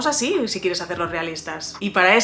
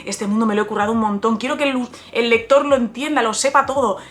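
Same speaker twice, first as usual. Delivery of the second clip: gushing beginner writer; 3 dB louder than usual. Retold or imitated. Writer imitating an author in love with their world, excited. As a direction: imitate a writer thrilled with their own idea.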